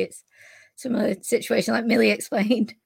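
losing her voice, raspy; hoarse voice. Real, not acted. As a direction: voice giving out, strained and rough. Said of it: "I'm losing my voice".

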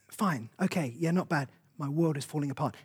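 quiet confession. Retold or imitated. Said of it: "someone just goes".

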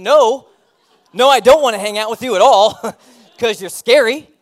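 put-on laughing teen reply. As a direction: laugh it off like a teenager saying no. Teens answer the creepy guy.

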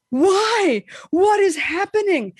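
bewildered. Retold or imitated. Horror movie chills.

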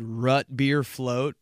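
Rut beer float, slow, rut for root; 慢慢说 Rut beer float; dad's pronunciation. Retold or imitated. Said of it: "the day my dad said".

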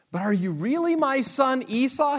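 put-on high, careful old father voice; a blind father, coaxing his son closer; old Isaac.

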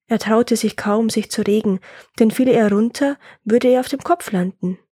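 measured folk-tale narration; story narration. A narrator's reading. Telling a woodcutter's folk tale, story narration. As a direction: read it as a tale for listeners.

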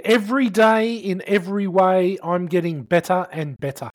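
slow, sing-song affirmation read; reciting an affirmation. Retold or imitated. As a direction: recite it like a self-help mantra. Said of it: "And they got original here".

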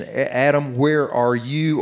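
slowed right down on where, searching; slow searching question. Shown as a demonstration. God calling to fallen Adam, slow and searching. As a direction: draw out the question as if seeking a lost heart. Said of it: "He was asking the question".

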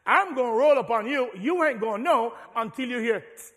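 loud, high sneaky threat; snake voice. Acted. Preacher voicing the devil as a snake, loud and menacing. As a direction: gloat like a creeping snake. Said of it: "A snake says".

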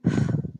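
breathy wordless gasp of shock; sharp gasp. Retold or imitated. Woman acting out reading news on her phone, gasping. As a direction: gasp as at a stunning phone alert. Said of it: "I look down at my phone and I was like".

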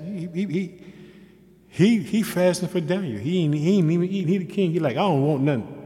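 loud, lively scripture preaching. Real, not acted. Preacher telling congregation of the fasting king, excited preaching. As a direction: preach the verse out, voice lifting on the key words.

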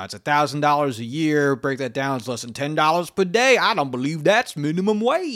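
light impression of De Niro's Georgia accent; De Niro's Southern accent. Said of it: "that's exactly how he says it".

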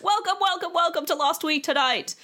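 a high, bright John Oliver welcome; John Oliver impression. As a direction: welcome them like a late-night host. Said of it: "That's exactly what he says".

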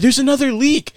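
high, laughing imitation of a panicky sister; mocking the sister. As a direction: squeak it out like the flustered sister while laughing. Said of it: "She was like".

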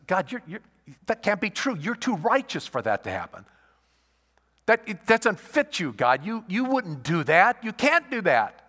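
high, loud pleading disbelief; incredulous protest. Retold or imitated. Habakkuk protesting to God, loud and incredulous. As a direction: cry out against God in disbelief.

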